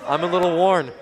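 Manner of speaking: breathless laughing talk; out of breath. Real, not acted. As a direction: catch your breath while talking. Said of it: "I'm out of breath".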